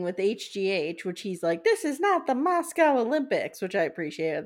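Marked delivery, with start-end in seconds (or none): 1.6-3.6 mock indignant Anthony. Anthony quoted in retelling.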